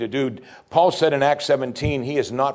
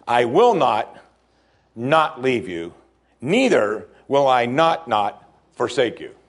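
every not slowed and leaned on; slow, emphatic literal reading; slower than usual. Shown as a demonstration. Preacher reading the literal Greek with slow, weighty nots. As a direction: stretch out "not" each time it comes. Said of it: "This is how it literally would speak".

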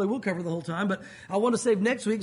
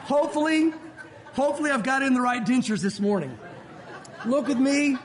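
laughing; 3 semitones higher than usual. Real, not acted. Laughing at own joke.

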